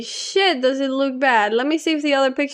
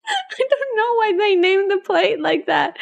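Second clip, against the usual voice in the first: laughing through words; 5 semitones higher than usual. Real, not acted. Still laughing at dish name.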